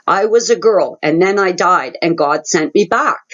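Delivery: a hint of a cheerful toddler spilling it out; mom's mild imitation of her little boy's merry announcement; merrily blurting child. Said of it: "he very merrily blurts out".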